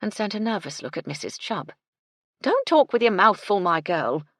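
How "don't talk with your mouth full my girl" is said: loud, high housekeeper's telling-off; scolding. A narrator's reading. Housekeeper reproves the maid for her manners, scolding. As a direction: scold sharply, starting high. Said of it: "the housekeeper scolded".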